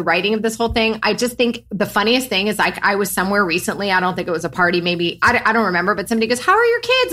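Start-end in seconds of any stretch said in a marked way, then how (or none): 6.4-7.1 mock polite question. Retold question from acquaintance.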